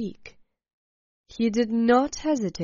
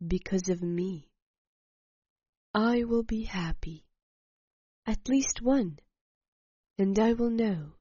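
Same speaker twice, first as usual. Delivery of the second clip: slow and calm. Acted. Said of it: "I said slowly after a pause".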